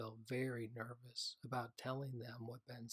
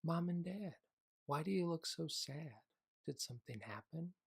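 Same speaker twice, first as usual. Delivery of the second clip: put-on child voice; 6 semitones higher, 4 dB louder than usual. Child voice in story.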